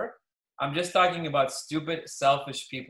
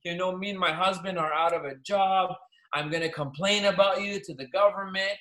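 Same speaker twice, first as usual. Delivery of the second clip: imitating upset caller; 3 semitones higher than usual. Retelling an angry caller's complaint, mildly mocked. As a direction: play the indignant caller with a touch of whine. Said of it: "She called me saying".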